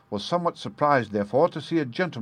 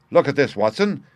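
triumphant cry; 4 semitones higher, 3 dB louder than usual. Acted. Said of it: "he cried".

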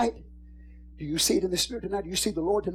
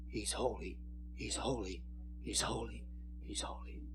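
much softer, lower whispered holies; whispered echo; 10 semitones lower, 18 dB quieter than usual. Retold or imitated. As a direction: let it fade like an echo in heaven. Angelic host heard in Spirit.

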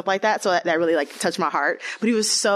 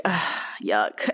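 mock disgust; 7 semitones lower than usual. Recalling the double date to the host, mock disgusted. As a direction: recoil like it's gross.

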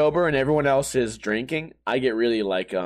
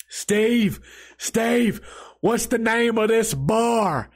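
put-on drunk old man's twangy country accent, slow and higher; 4 semitones higher, much slower than usual. Drunk old man at the bar begging Steve, country accent. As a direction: drawl it out like a tipsy Southern old-timer. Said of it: "he has a country accent".

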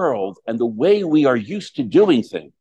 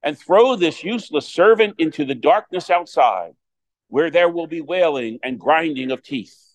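gospel reading; 2 semitones higher than usual. Acted. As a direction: proclaim it from the pulpit.

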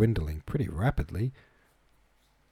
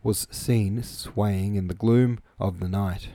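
measured audiobook reading, carefully articulated; story narration; 3 dB louder than usual. A narrator's reading. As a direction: read the novel aloud in even, deliberate phrases. Reads the chapter aloud.

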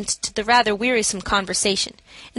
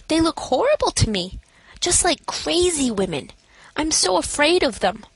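feigned fear; 6 semitones higher than usual. A narrator's reading. Narrator feigns fear of the lodgers to the matron, higher and frightened. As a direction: sound spooked by the other women.

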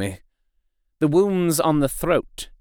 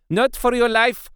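fierce command; 11 semitones higher than usual. A narrator's reading. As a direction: stop him with fury. Professor hurls Arthur away furiously.

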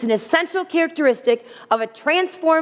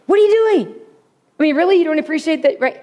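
high, loud, fast exasperated questioning; exasperated snap; 4 semitones higher, 3 dB louder, faster than usual. Retold or imitated. Wife scolding husband over rearranged dishes, exasperated. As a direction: fire it off like a fed-up wife. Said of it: "instead of".

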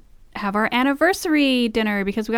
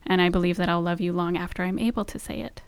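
heartfelt vows. Real, not acted. Reciting wedding-style vows.

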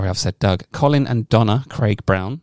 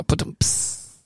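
mouthed drum sting after a joke; vocal rimshot; 4 dB quieter than usual. Pretend. Podcaster answering co-host's chip pun, mock rimshot. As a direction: imitate a rimshot, soft drums and hissed cymbal.

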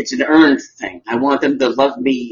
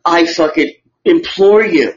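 honeyed southern lawyer drawl; 3 semitones higher than usual. Acted. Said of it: "ladies and gentlemen of the jury".

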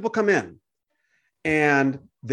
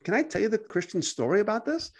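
soft, higher-pitched friendly offer; gentle; 4 semitones higher, 3 dB quieter than usual. Acted. Believer offering a stranger the Christian story, gently. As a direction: ask it softly, without confrontation. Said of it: "let's say it in a gentle manner".

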